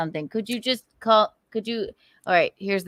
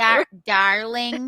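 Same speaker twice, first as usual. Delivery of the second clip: put-on slow, stretched Chicago accent; slower than usual. Friend keeps trying the Chicago version, slow Chicago accent. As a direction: drag out "darling" like a Chicagoan, amused. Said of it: "what a Chicago and".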